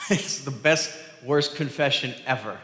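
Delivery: laughing into the words; real laugh breaking in; amused. Real, not acted. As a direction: chuckle at the absurdity as you speak. Amused at Adam's blame-shifting.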